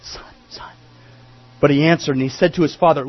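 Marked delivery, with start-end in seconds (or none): 0.0-0.7 pleading. Acted. Father pleading with his son.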